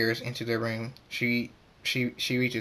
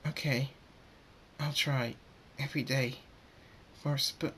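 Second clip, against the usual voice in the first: tearful agreement; 3 semitones higher, 6 dB quieter than usual. Acted. Grieving Twilight gives in.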